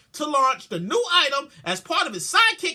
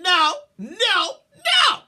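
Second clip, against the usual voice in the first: emphatic no; 4 semitones higher, 4 dB louder, much slower than usual. Real, not acted. Refusing the caviar.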